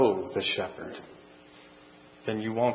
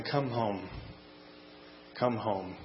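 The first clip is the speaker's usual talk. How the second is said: soft tender call, a bit quieter; softly calling; 8 dB quieter, slower than usual. Acted. The shepherd calling home during prayer, soft and tender. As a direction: call gently, like from afar. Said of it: "We hear the voice of the shepherd".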